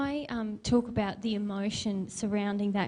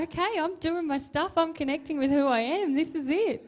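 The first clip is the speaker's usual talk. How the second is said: higher, brightly self-assured inner voice, lightly played; mock upbeat self-talk; 7 semitones higher than usual. Quoting what she felt while crying, higher, lightly upbeat. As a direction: chirp it like a cheerful pep talk to yourself. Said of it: "And I felt".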